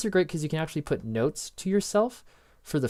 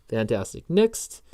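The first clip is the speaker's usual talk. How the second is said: usual speaking voice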